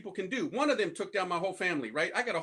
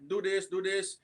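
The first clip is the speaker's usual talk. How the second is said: bossy leader. Retold or imitated. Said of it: "she starts telling the other ones".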